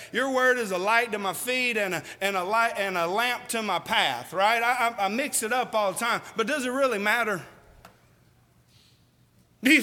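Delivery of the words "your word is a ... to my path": halting, tripping over the words; a muddled recitation with a restart; stumbling misquote. Shown as a demonstration. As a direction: fumble the verse and self-correct. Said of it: "I'll mess it up and say".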